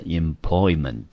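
employment said clearly with its -ment ending; teacher's demonstration of employment; pronunciation of employment. Shown as a demonstration. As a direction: model employment for learners. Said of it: "这个字我们就念成employment".

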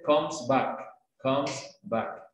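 comes back, S sounded on comes. Shown as a demonstration. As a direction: link comes to back, keeping the S. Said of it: "si lo dices con S es".

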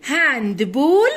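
هاند بول with "ball" rounded like "bawl"; A pronounced as O. Shown as a demonstration. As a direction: say هاند بول slowly, the a before double l as an o. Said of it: "بننطقها كأنها او".

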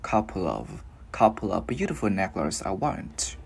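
"couple of" glided together as one unit; lightly linked. Shown as a demonstration. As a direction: slide gently from "couple" into "of". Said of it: "mình sẽ luyến nhẹ qua". ("couple of", luyến nhẹ nối âm)

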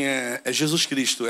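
low, slow, hesitant reply; reluctant answer. Retold or imitated. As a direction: admit it slowly and low. Reluctantly gives his name at counter. (resposta hesitante, baixa e devagar)

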